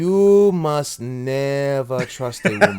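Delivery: slow, overblown mock African accent; Will Smith's bad accent. Co-host parodying the film doctor for laughs, mock African accent. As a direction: stretch it out in a badly faked African accent. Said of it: "as strong as Will Smith was attempting to do poorly".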